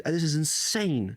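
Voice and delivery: high, slow, stretched-out amazement; retold astonishment. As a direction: imitate her jaw-dropped disbelief. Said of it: "her jaw was on the floor".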